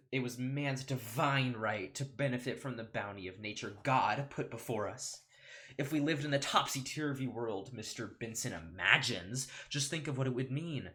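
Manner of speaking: orate to the jury; grand opening statement, drawn-out key words; pompous courtroom lawyer. Acted. Plays the lawyer Montgomery.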